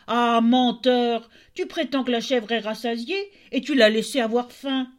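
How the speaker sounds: put-on an old tailor scolding his son; angry tailor. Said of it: "s'écria le tailleur". (vieux tailleur en colère, voix forte)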